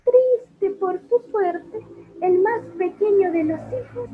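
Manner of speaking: high, airy fairy voice. Acted. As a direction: float it like a little fairy. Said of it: "Ahora como un hada".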